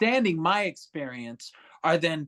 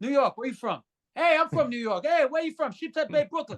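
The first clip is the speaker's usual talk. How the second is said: much higher, put-on Brooklyn New York accent; 10 semitones higher, faster than usual. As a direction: ham up a Brooklyn New Yorker. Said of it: "I'll put on a New York accent".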